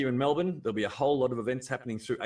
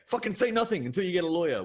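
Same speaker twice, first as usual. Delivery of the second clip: blunt advice; 6 semitones higher, 3 dB louder, faster than usual. Retold or imitated. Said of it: "What do you say?".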